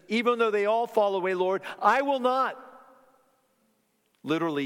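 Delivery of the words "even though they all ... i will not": higher, louder and fast, a boastful promise; bold vow. Retold or imitated. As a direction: swear it boldly like Peter. Peter vows loyalty to Jesus.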